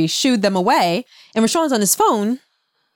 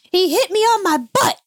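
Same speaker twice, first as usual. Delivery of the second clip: put-on high childish complaint; little girl voice; 11 semitones higher than usual. Mom voicing her daughter telling where she was hit. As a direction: pipe it up like a small hurt girl.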